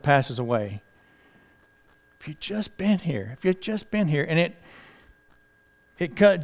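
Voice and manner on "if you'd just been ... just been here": much softer, quietly repeating the lament; hushed grieving echo. Acted. Preacher echoing Martha's lament, soft and grieving. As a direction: let it fall to a soft, grieving murmur. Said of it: "And she was distraught".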